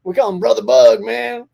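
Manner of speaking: lightly imitating his brother's redneck drawl; a hint of Louisiana redneck; playful take on a Southern drawl. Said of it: "That's how he talks".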